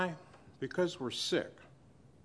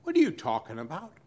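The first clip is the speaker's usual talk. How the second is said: quick challenge; much faster than usual. Acted. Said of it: "Jesus turns around and says".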